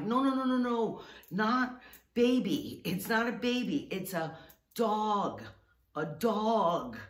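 frantic, then slow it's a dog; flustered explaining. Retold or imitated. Telling the alarmed sister the stroller holds a dog. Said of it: "I'm like".

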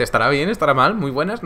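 high, wavering questions; mock doubting. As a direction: imitate someone dithering over a greeting. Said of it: "Como dudando ya directamente".

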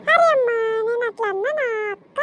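loud tearful protest; pleading protest. Acted. Elder daughter-in-law protests to her mother-in-law, loud and tearful. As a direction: cry out in defence.

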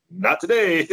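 high, mocking voice saying no; voice of God. God telling the cocky announcer no, high mock voice. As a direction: tease him in a lofty high voice. God's voice in retelling.

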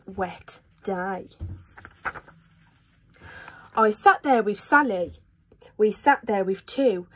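lively storybook read-aloud; animated picture-book reading; reading to children. A narrator's reading. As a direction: read it like bedtime for little ones. Reads Cat in the Hat aloud.

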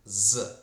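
"з" alone as a buzzing z; isolated Z sound. Shown as a demonstration. Teacher isolating the second sound, "з" as a lone z. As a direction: sound out "з" by itself, loud. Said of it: "у нас звук".

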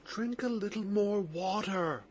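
soft, quiet murmured offer. Acted. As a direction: murmur it gently under the noise. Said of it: "murmured Nikolai Parfenovitch".

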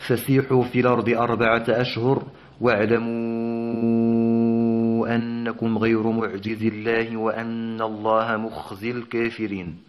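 slow chanted tajweed recitation; Quran recitation. Shown as a demonstration. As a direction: recite the verse in measured, melodic chant. Teacher recites next verse.

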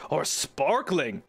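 slow, enticing "Or sparkling"; tempting waiter. Retold or imitated. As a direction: make sparkling sound irresistible, drawn out. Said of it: "they make it sound so good".

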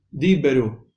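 "Diberu" slowly as di-be-ru; sounded shva in Diberu. Shown as a demonstration. Teacher repeats the correct reading, sounded shva. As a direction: keep the e between b and r in "Diberu". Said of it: "no es Dibru".

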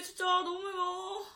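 pained, slow cry about the heat; tongue on fire from spice; mouth burning from spicy food. Real, not acted. (매워서 입이 타는 듯한 목소리)

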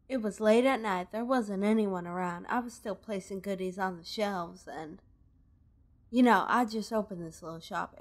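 lightly voiced Southern woman merchant; Southern accent. Robbed merchant explains to the player, light Southern accent. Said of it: "kinda doing the Southern voice thing again".

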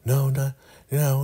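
nervous high put-on voice; Joan. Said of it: "she is so nervous".

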